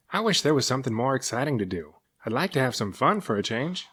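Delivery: a bored monster longing for fun; a hint of a childlike serpent; lightly voiced gentle sea serpent. Cyrus voiced, bored and eager.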